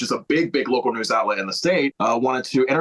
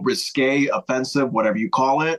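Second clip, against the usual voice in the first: normal talking voice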